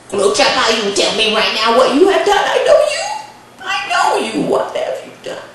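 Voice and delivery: insistent demand leaping up in pitch; scolding grandmother. Acted. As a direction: press hard for a confession.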